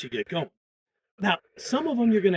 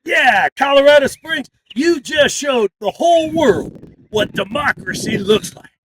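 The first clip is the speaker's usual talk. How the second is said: loud, higher cheer to the crowd; rallying shout; 6 semitones higher, 11 dB louder than usual. Shown as a demonstration. Organizer praising the crowd after the chant, shouting.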